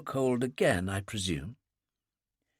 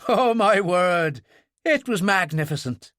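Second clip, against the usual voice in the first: amused exclamation; 3 semitones higher than usual. Acted. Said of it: "He laughed again in genuine amusement".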